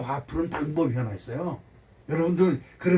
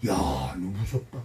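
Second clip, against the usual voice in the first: slow low whisper into the mirror; whisper to self; 12 semitones lower, 5 dB quieter, slower than usual. Retold or imitated. Pastor whispering to his own reflection, slow and low. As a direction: hush it to yourself, slowly. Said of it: "내가 나한테 뭐라 그래요?".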